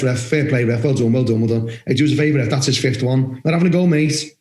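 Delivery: low, matey word to the ref; savvy captain. Acted. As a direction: keep it low and friendly, working the referee. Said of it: "Rather than just screaming out".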